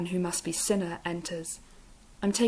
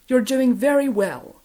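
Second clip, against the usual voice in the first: higher, louder, slow Capitol drawl; slow and lofty Capitol accent; Capitol accent praise; 6 semitones higher, 9 dB louder than usual. A narrator's reading. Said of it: "such a high pitch".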